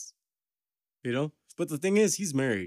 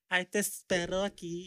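slithering sassy voice; 7 semitones higher, 3 dB quieter than usual. Retold or imitated. Imitating how the electrician talks, higher and sassy. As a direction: give it that slithering sass. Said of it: "that's how he talks".

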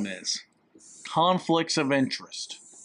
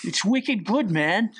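high, put-on New Hampshire accent; playful New Hampshire slang voice; 4 semitones higher, slower than usual. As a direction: imitate a New Hampshire local.

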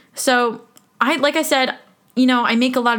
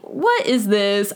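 slow incredulous; much slower than usual. Retold or imitated. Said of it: "I was like".

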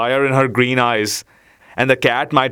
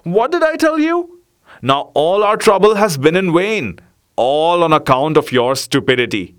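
higher, scolding dog voice; angry dog scolding; 3 semitones higher than usual. Acted. Dog to the cat who lost the beetle, angry scolding. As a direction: tear into the cat for her blunder. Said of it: "said the dog angrily".

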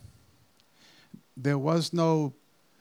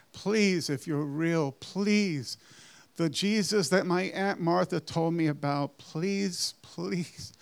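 desperate prayer; 2 semitones higher, slower than usual. Retold or imitated. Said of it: "my first prayer".

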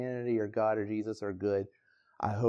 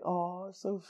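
mock cute; 7 semitones higher, 5 dB quieter than usual. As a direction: coo it like it's all sweet and precious, mocking the idea. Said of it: "this story can sound nice".

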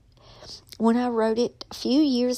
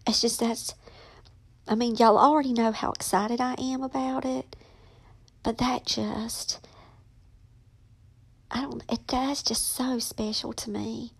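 choked up; 3 dB quieter than usual. Real, not acted. Overcome talking about mom.

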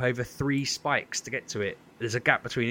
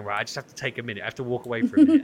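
frantic chat; 6 dB louder, much faster than usual. Retold or imitated. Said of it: "everyone would be losing their minds, going".

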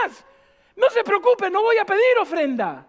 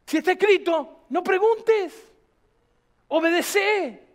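"no preguntes" arrastrado muy despacio; lento enfático; slower than usual. Real, not acted. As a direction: alarga cada sílaba de "no preguntes". Lema repetido, arrastrado. (remata el lema muy despacio)

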